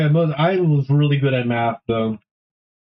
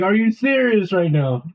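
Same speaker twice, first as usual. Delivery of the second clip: higher, slow disbelief; mock-indignant and drawn out, pitched up; retold exasperation; 8 semitones higher, slower than usual. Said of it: "that pissed me off".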